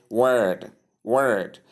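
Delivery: word with a long central vowel; long vowel sound. Shown as a demonstration. Teacher giving word as example, long vowel drawn out. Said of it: "how the long S sound there sounds".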